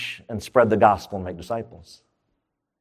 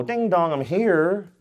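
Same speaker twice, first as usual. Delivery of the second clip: mock doorbell greeting; 4 semitones higher, slower than usual. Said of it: "doesn't ring the doorbell and go".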